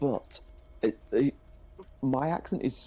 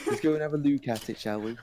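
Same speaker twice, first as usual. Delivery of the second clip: put-on higher-pitched posh Manchester accent; posh Mancunian accent; 5 semitones higher than usual. Quoting relatives from posh Manchester, posh Mancunian accent. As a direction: imitate well-to-do Mancunians, long oo in look. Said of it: "from the posh end of Manchester".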